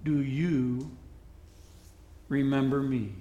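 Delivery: quietly, with a hint of a whisper; old man gently greeting his lost love, softly; soft, near whisper. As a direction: say her name softly, barely above a hush. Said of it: "said softly, almost in a whisper".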